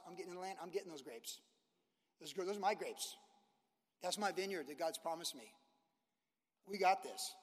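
lightly voiced confident veteran Caleb; imitating Caleb. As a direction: talk as seasoned Caleb, sure of himself. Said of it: "That's what he would have been like".

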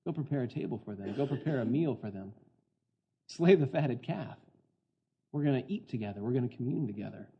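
quietly voiced, kindly instruction; gentle command. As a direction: give the order gently, inviting them to the table. Voices the master's gentle command to servant.

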